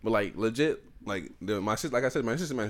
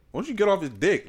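higher, louder retold challenge; mock heckling; 9 semitones higher, 5 dB louder than usual. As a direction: call them out loudly, imitating a coworker. Coworker's retold jeering challenge.

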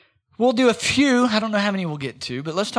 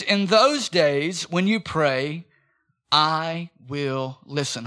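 slow scripture reading; 3 semitones lower, much slower than usual. Acted. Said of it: "It says".

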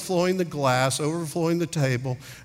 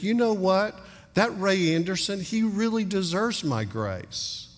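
higher-pitched, mock-approving thought; mock approving God; 6 semitones higher than usual. God musing about a supposedly deserving man, mock approving. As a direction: lightly voice God making an exception, pitched up. Imagined God praising the preacher.

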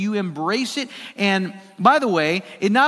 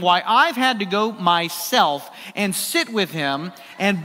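irate; 3 semitones higher than usual. Retold or imitated. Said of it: "she was just irate".

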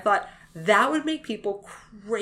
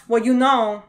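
loud New York accent turning Latin; hammed-up Latin-tinged New York accent; attempted New York accent; 6 dB louder, slower than usual. Shown as a demonstration. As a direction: try New York, let it slip into Latin. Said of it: "can't really do a New York accent without sounding totally".

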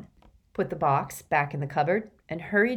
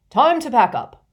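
loud call; 7 semitones higher, 11 dB louder than usual. A narrator's reading. Slughorn announcing to class.

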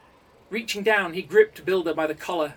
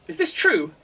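sharp demand, higher and louder; 12 semitones higher, 8 dB louder than usual. A narrator's reading. Council leader demanding the truth from the coder. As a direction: demand an answer at once. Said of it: "demanded Screamer".

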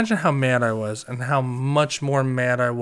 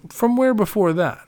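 put-on much higher, prying drunk questioning; nosy drunk; 10 semitones higher, 4 dB louder than usual. Drunk friend prying into the Uber driver's origins, high and nosy. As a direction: push the question, tipsy and nosy. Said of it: "he goes".

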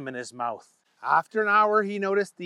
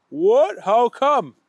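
louder shocked question; startled louder Booger; surprised; 6 semitones higher, 7 dB louder, much slower than usual. A narrator's reading. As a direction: protest in disbelief.

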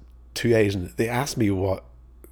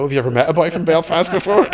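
cheeky challenge; 10 semitones higher, 10 dB louder than usual. Retold or imitated. Cheeky retort to the master.

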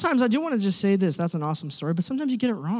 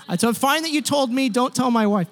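louder, pressing don't tell; urgent plea; 4 semitones higher, 5 dB louder than usual. Retold or imitated. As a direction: beg him, half joking. Pleading not to tell wife.

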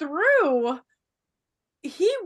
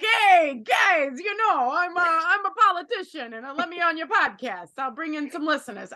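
put-on New York accent. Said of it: "were you doing a New York accent there".

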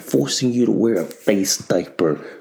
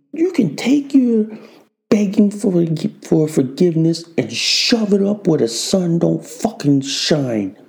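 high angry tirade; 4 semitones higher than usual. Acted. Cursing at the left.

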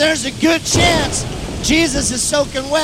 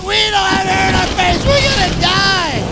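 mock panicked protest; 6 semitones higher than usual.

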